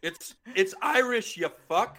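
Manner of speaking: high, loud laughing retort; real laughter breaking into the words; laughing exasperation. Real, not acted. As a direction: laugh through a slow, incredulous correction. Laughing at co-host's spelling objection.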